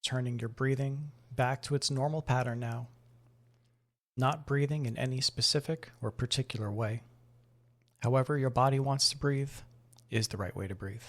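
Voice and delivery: calm, measured meditation voice with long pauses; guided meditation. Acted. Host guiding listeners to breathe and notice the body, guided meditation. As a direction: ease them gently through breath and body awareness.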